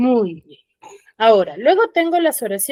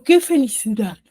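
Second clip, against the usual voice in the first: exclamation. Shown as a demonstration.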